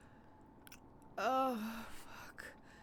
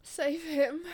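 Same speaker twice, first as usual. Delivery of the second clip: loud cry; 2 semitones higher, 7 dB louder than usual. Acted. Rising ecstatic outcry.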